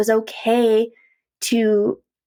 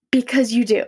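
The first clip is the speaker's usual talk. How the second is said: whispered reassurance. Real, not acted. Reassuring the viewer that sad feelings have reasons, whispered. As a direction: let it drop to a confiding whisper.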